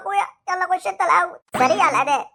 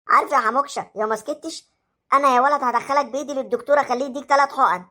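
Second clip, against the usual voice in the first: low, threatening teacher voice; teacher scolding a noisy boy; stern teacher; 4 semitones lower than usual. Acted. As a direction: warn him you'll send him first.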